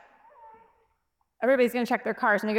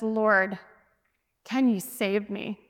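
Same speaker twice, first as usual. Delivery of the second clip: low, slowing, mild plea; humble and contrite; 3 semitones lower, much slower than usual. Retold or imitated. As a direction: plead humbly, voice dropped. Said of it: "He's humble and contrite".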